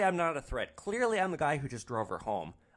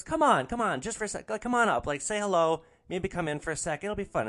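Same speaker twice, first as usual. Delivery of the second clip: higher, pushy, insistent invite; bright, much higher pleading come on; eager coaxing; 8 semitones higher, 5 dB louder than usual. Retold or imitated. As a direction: wheedle him into coming inside. Passenger urges him to come up.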